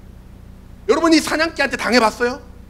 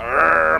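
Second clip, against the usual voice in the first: guard dog growl; 6 semitones lower, much slower than usual. Retold or imitated.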